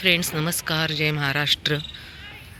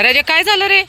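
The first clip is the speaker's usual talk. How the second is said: much higher, much louder doting pet talk; shower the dog with high cooing worry; 9 semitones higher, 8 dB louder than usual. Real, not acted. Woman pleads with the dog Raja to eat, high doting baby talk.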